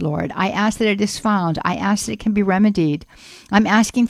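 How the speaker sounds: earnest, even-pitched prayer; heartfelt radio prayer for a listener; spoken prayer. Real, not acted. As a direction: intercede steadily for someone in trouble. Leads a prayer for listener's daughter.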